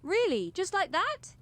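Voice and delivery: surprised. Acted. Surprised at instant agreement.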